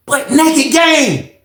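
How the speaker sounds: amazed. Real, not acted. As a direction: stretch it out in disbelief. Awed recall of the pictures.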